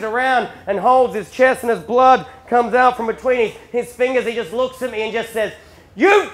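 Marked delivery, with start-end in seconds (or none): 5.9-6.3 slow, high, full-volume disbelief; acted roar at the one who shot you; outraged shout. Wounded dad to son, shouting in outrage.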